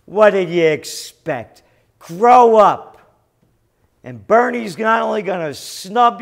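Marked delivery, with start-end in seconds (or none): 0.0-3.0 scolding. Real, not acted. Scolding Bernie supporters.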